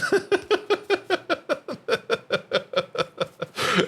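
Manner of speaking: long high giggle; high laugh. Real, not acted. Laughs at own story.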